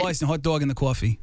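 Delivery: put-on Boston accent, vowels bent; broad Boston accent jokingly. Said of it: "Oh, you're good at that".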